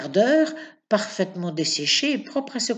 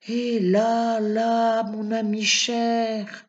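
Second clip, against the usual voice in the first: gently; 3 semitones higher, much slower than usual. A narrator's reading. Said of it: "lui fit doucement maître Gonin".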